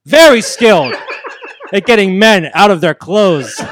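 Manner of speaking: laughing boast. Acted. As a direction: repeat the brag, chuckling through it. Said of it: "cut a promo on Sorg".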